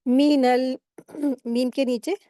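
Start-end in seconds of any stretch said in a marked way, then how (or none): 0.1-0.8 "मीनल" measured, the n run into a held l; joined recitation. Shown as a demonstration. Teacher modelling noon joined to laam, measured recitation. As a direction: recite "मीनल" evenly and rest on the l. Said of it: "नून को लाम में मिलाकर पढ़ेंगे".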